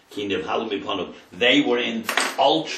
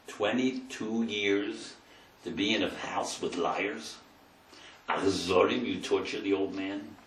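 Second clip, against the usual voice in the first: soft grave rebuke; 3 semitones lower, 8 dB quieter than usual. Acted. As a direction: quietly accuse the brothers of lying. Yosef's quiet rebuke of brothers.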